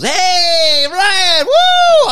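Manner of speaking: loud high call of someone's name; party-bound friend yelling a greeting from the car door. Retold or imitated. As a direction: whoop it out like a friend hollering from a car.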